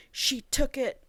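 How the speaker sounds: high, lightly voiced dying words; a hint of a dying man's last gasp; dying captain. Dying captain tells James who took it, lightly acted.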